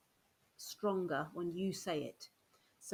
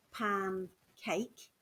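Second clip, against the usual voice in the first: slow compound demo. Shown as a demonstration. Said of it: "So I'll show you first".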